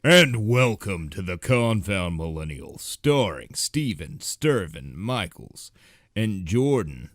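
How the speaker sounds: a bigger, cleaner restart of the welcome. Real, not acted. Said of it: "Let me restart that".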